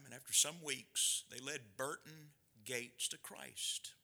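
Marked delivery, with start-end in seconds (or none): 1.3-3.9 whisper. Real, not acted. Awed quiet reveal of outcome.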